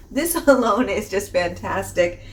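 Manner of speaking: a real laugh breaks up the line; giggling mid-sentence at herself. Real, not acted. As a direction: laugh through it and finish the sentence. Laughs through the restarted sentence.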